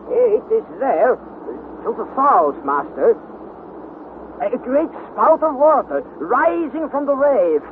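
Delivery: slow, deliberate report from the lookout. Acted. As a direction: call out what you see from far off. Hans reports from the mast.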